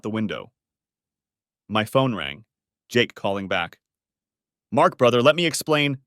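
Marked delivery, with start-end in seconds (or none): 4.7-6.0 urgent plea. Acted. Friend pleading on phone.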